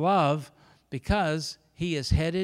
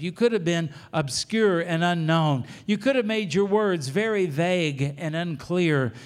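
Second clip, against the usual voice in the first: earnest prayer; 4 dB louder than usual. Acted. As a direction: pray over the congregation with conviction. Pastor leads closing prayer.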